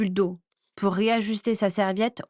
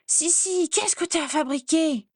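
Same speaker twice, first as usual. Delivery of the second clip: much higher, distraught questioning; horrified; 8 semitones higher than usual. A narrator's reading. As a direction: still reeling from the shock. Horrified at her reflection.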